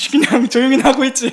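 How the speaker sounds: a fed-up wife telling her husband to hush; irritated wife. Retold or imitated. Pastor voices annoyed Hannah.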